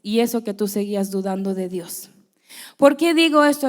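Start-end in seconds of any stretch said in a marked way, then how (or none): 0.0-2.1 whispered, teasing aside; mom's whisper. Retold or imitated. Mother teasing daughter who doubted God: whispered. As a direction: breathe it like a knowing mother. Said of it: "ella muy siendo mi mamá me dice".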